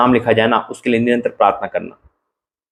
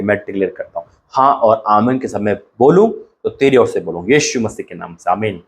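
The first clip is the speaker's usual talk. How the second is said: earnest preacher's prayer. Acted. Pastor praying over the three hundred names, earnest. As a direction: lead the church in thanks.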